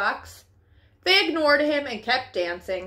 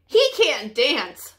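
clucking; slower than usual. Acted. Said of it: "clucked the other chickens".

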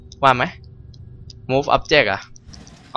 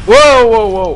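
higher, louder amazed wow; surprised wow; 10 semitones higher, 7 dB louder than usual. Real, not acted. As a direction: gasp out a stunned wow. Player reacts in the game. (ตื่นตะลึง)

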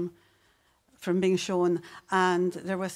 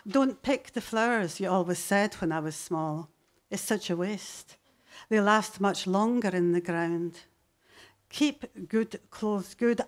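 poem reading. Acted. Poet reading the poem about her mother to the audience, measured delivery. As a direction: read the memories of mum with weight.

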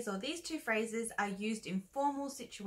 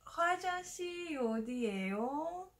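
higher, fast lost-tourist question; 5 semitones higher, faster than usual. Acted. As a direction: ask the way, a bit flustered. Acted skit asking for restroom.

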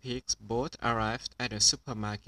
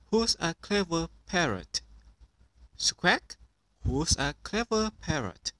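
squawky parrot copying, higher; mimicking parrot, a little higher; 5 semitones higher than usual. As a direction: echo it like a parrot. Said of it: "Polly copied".

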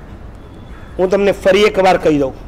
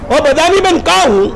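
calling out; 7 semitones higher than usual. Retold or imitated. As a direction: call across the hall to the woman. Calling to the woman in Marwari. (મારવાડીમાં ઊંચા અવાજે બૂમ)

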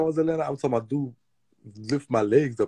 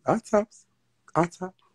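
gleeful brag; 11 semitones higher, slower than usual. Real, not acted. Boasting, repeated higher.

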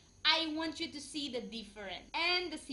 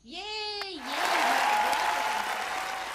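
high excited cheer, slowed; 4 semitones higher, much slower than usual. Real, not acted. Host cheering that Filipinos and Indonesians are brothers, excited. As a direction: celebrate like a fan.

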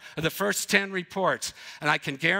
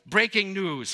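news anchor. Shown as a demonstration. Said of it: "How many of you are big on breaking news?".

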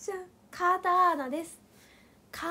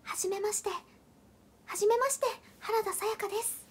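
imitating Sayaka; 4 semitones higher, faster than usual. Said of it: "私がモノマネするサラちゃん".

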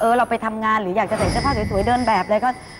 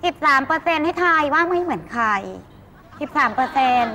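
light celebrity impersonation for a guessing game; เลียนเสียงปอย. Acted. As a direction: lightly mimic a star's way of talking. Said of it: "เสียงเหมือนมาก". (เลียนเสียงคนดังเบาๆ แบบล้อเล่น)

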